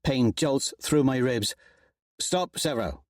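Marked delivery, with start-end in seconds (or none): 2.2-3.0 snapping. Acted. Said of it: "Darrow snaps".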